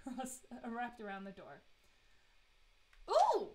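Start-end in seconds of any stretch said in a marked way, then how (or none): 3.1-3.5 loud high burst of delight; thrilled at the find; loud, high ooh of joy; excited ooh. Real, not acted. Finds exactly the needed item.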